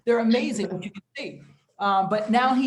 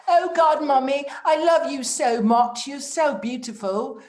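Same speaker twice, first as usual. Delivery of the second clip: higher, louder adoring gush; gushing godson; 5 semitones higher, 4 dB louder than usual. Retold or imitated. Godson gushing to his mommy, higher. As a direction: pour out adoration. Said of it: "He's like".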